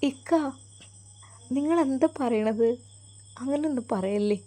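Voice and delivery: a frightened mother pleading with her husband; upset wife. Acted. Wife protests husband's words.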